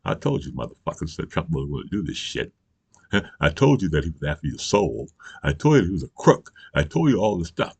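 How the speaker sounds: lightly voiced old statesman scolding, easing back toward own voice; Joe Biden impression. Vlogger mimicking the president scolding voters, lightly voiced and soft. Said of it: "I'm gonna do my best Joe Biden impersonation".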